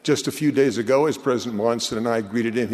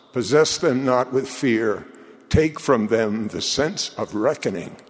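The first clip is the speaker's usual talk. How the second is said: louder, declaiming a battle prayer; Shakespeare recitation; 3 dB louder than usual. Acted. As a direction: recite it like a king before battle. Recites Shakespeare's King Henry.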